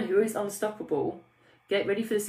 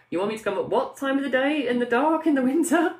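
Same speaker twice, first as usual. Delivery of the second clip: high, loud mock disbelief; incredulous; 7 semitones higher, 6 dB louder than usual. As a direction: question it in rising, hammed-up outrage. Retold incredulous objection to early training.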